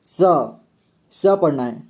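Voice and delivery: स as s, not sh; s sound. Shown as a demonstration. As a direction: model स as a clear s. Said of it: "और इसे".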